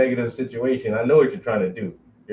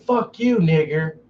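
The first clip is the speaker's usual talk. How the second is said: high mock yell imitating the wife; mock angry wife; 3 semitones higher, slower than usual. Imitating the angry neighbor wife mid argument. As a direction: throw the slur like a furious neighbor. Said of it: "She was like".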